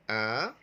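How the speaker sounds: a loud, held अ for repeating; teacher's long, isolated अ; model sound. Shown as a demonstration. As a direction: say अ alone, drawn out and loud. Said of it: "अब सबसे पहले आप बोलिए".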